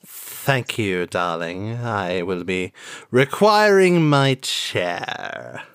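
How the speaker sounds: campy drag queen. Acted. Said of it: "will you be Denise Leary?".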